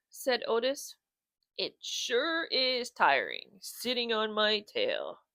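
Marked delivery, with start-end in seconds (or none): 1.6-5.2 slow, tired dog voice; lazy bulldog. Acted. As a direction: drag the words lazily. Otis voiced in story.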